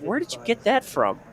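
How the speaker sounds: high-pitched mock bafflement; incredulous parents. Retelling parents questioning a child's pronunciation, mock incredulous.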